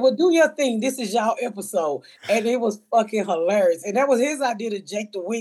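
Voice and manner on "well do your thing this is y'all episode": excited go-ahead. Retold or imitated. Producer cheering on co-creator, high excited burst. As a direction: hype him up, then let it settle. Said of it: "And I said".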